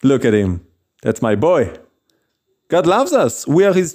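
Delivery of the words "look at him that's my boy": low-pitched boast of a father; proud bragging. Acted. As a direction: play a proud father showing off his son. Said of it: "God loves bragging about his children".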